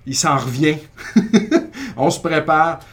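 rally everyone, giggling; excited rallying. Retold or imitated. Owner telling staff the star is coming, excited and laughing. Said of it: "c'est comme".

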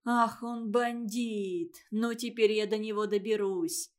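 медленный возмущённый возглас, чуть громче; грози хулигану с возмущением; завопила. Acted. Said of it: "завопила Олимпиада Трифовна". (мама возмущается хулиганом, лишь слегка повышая голос)

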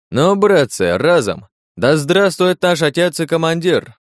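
high, rousing toast. Acted. Подьячий провозглашает общий тост. (торжественный тост приподнятым голосом)

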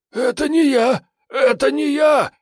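high, hoarse, panicked squeal. A narrator's reading. Suspect squeals in panic at the interrogator. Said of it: "охрипшим голосом заверещал Прыня".

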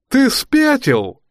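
slow, high, loud gurgling shout; gloopy bubbling slime voice. Acted. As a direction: bubble it out slowly, stretched and high. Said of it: "раздался булькающий голос за спиной".

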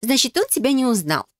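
drawn out. Acted. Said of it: "протянула Фелиция".

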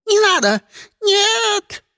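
high, loud crying scream; terrified scream. Acted. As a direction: shriek in panic. Egg screams as grabbed.

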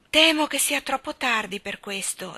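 gently regretful, understated; sad, regretful reply. Acted. Valentino tells Jane it is too late, mildly sad. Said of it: "egli disse tristemente".

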